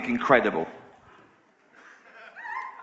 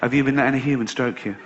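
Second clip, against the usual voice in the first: lower, menacing spider voice; low stern spider; 6 semitones lower than usual. Retold or imitated. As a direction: banish him gravely. Spiders disowning bald one.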